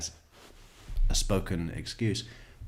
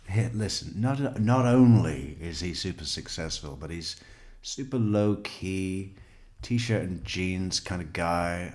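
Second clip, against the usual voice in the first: mock impression. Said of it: "that's his only point".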